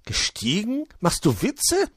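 high, incredulous outburst; blurted out. A narrator's reading. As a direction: blurt it in disbelief. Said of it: "entfuhr es Wuschel".

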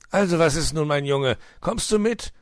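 a touch of friendliness after an outburst; somewhat friendlier. A narrator's reading. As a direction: coax the child along. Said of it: "fragte Herr Fuchs nun etwas freundlicher".

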